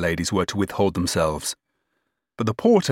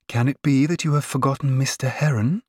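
higher, rising intoned question; intoned reproach; 6 semitones higher than usual. A narrator's reading. Sister reminds cousin of the other man, intoning. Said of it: "intoned Miss Charlotte".

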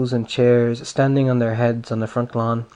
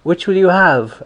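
higher, louder sly politeness; mock polite boy; 6 semitones higher, 5 dB louder than usual. A narrator's reading. Boy slyly offering a fake treat, mock polite. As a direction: offer it sweetly as a trick.

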